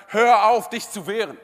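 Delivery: loud called-out order; lifeguard shouting. Retold or imitated. Lifeguard yells at drowning man, loud command. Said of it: "er ruft zu und er sagt".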